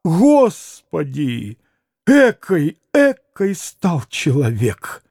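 slow, sinking lament; drawn-out regret; pained dismay. Acted. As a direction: exclaim slowly in disillusion. Grushenka dismayed at her former lover.

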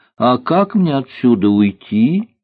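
lightly sweetened, coaxing question; a touch of girlish sweetness; sweet little voice. A narrator's reading. Girl asks cook how to leave, gently sweet. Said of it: "сказала она ласковым голосочком".

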